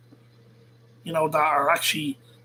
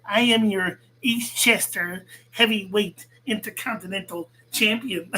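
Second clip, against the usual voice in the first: mocking the rival's girly, nasal way of talking; mock girly nasal imitation; 4 semitones higher than usual. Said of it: "He, he fucking talks like that".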